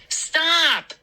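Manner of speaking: high, drawn-out desperate protest; gasped cry. Acted. Boy pinned under a bully, gasping plea. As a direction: beg it to end, pitched high. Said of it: "I gasped".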